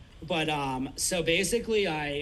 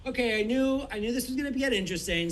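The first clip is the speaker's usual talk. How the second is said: higher, stunned self-talk; surprised inner thought; 7 semitones higher than usual. Retold or imitated. Opening the door to a towel-clad wife, stunned. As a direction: react like you can't believe the scene.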